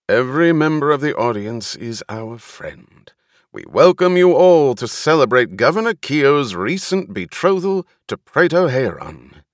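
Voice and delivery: high, loud showman's welcome; booming announcer. A narrator's reading. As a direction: boom it out to the crowd. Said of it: "Rainvar's voice boomed".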